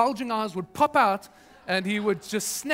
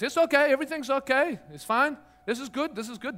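calm soothing; 5 semitones higher than usual. Retold or imitated. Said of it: "Calm as anything".

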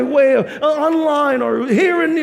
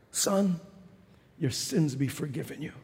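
hushed tender; 13 semitones lower, 13 dB quieter than usual. Acted. Jesus to the paralysed man, hushed tender pardon. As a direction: breathe the pardon like a secret. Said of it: "with kind, tender words".

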